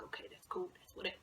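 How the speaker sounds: whispered, acted playing it cool; hushed nonchalance. Girl to herself about the six pack, hushed. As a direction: murmur it under your breath, barely voiced. Inner reaction, played cool.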